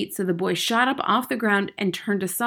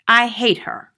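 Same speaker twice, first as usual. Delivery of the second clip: put-on sulky boy voice; 4 semitones higher, 8 dB louder than usual.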